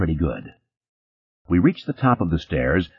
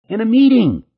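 very high, louder squeal; 5 dB louder than usual. Acted. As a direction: squeal it hysterically. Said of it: "the girl squealed".

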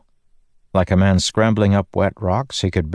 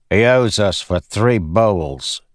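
den keeper; 4 semitones higher, 3 dB louder, slower than usual. Acted. Den keeper demands payment.

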